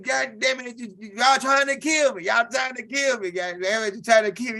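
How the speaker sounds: high, shouted accusation; mock outraged yell. Cousin yelling at little man after the shock, mock outrage. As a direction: yell that they tried to kill him.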